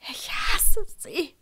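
high, loud and drawn out; hateful outburst. Acted. Girl declaring her hatred into tense silence, hateful outburst.

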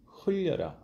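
흘려라 sung high, sliding down; high sliding call. Shown as a demonstration. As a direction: glide 흘려라 from high, falling. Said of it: "마지막 포인트가 중요합니다".

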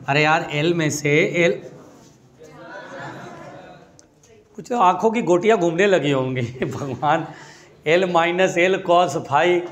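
low, weary voice of a baffled student; mock bewildered student muttering to himself; confused student grumbling.

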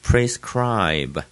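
prescribe with a strong SCRIBE; stress on CRI. Shown as a demonstration. Teacher repeating the model, prescribe stressed on CRI. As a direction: lean on the 'cry' in prescribe. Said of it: "cry的地方最重了".

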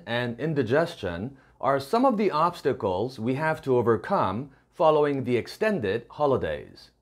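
slow, careful English read-aloud; slow model reading. Shown as a demonstration. Teacher reads the model sentence to students, slow and clear. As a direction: read it slowly so learners can follow.

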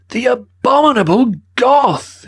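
high, slow, furious outburst; outraged cry. A narrator's reading. Curator crying out at the thief. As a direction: bellow it in outrage. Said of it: "he cried".

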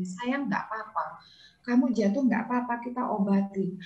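put-on soft, gentle reassurance to a hurt child; soothing mother. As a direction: comfort the crying child softly. (ibu menenangkan anak dengan lembut)

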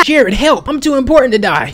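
panicked, high, loud cry for help; hammed-up self-important panic, yelled high. Podcast host begs producer for help, screaming. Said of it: "Look at Jameson screaming"

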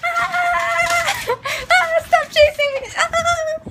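high screams while chased by the dog; being chased. Real, not acted. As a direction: scream and laugh, fleeing the dog. Dog chasing her.

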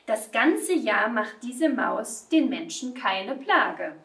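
measured, melodic storytelling verse; expressive children's verse reading; poem recitation. A narrator's reading. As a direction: recite a playful poem for children, lilting line by line.

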